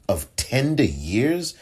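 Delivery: slow, disbelieving echo of "tender years" with a rising end; scoffing "Of tender years?"; incredulous echo. Retold or imitated. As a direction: repeat it back as if it can't be serious. Mocking the judge's phrase.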